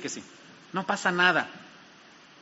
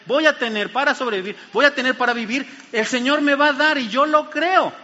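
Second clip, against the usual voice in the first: cada vez más alto y fuerte, convencido; proclamación confiada; 2 semitones higher than usual. Retold or imitated. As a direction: declara tu fe con fuerza creciente. (el hombre que confía en Dios, proclamando con convicción)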